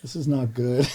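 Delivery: hushed dismay. Retold or imitated. Own dismayed inner reaction, retold.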